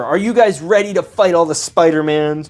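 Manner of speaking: a heroic rally call; Spider-Man voice. Pretend. Playing Spider-Man rallying the minifig team, lightly voiced. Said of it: "it's me, Stud Parker".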